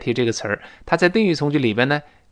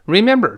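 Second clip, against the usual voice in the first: "Remember" higher, middle syllable punched; stressed word; 7 semitones higher, 4 dB louder than usual. Shown as a demonstration. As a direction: hit the second syllable of "Remember" hard. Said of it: "重读".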